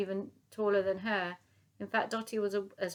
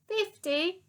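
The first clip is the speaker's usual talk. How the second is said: much higher squeak of disbelief; shocked; 12 semitones higher, 5 dB louder than usual. Acted. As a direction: gasp the number in shock. Shocked old soldier.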